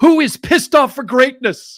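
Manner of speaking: very loud, very high, cheerful, happy shout. Retelling how a guy announced over the cubicles each day: retelling a loud happy announcement. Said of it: "announce over the cubicles in a very loud voice, happily".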